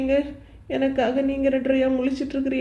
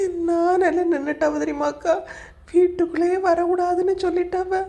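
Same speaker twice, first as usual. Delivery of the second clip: crying; 2 semitones higher than usual. Acted. Thrown out of house, crying.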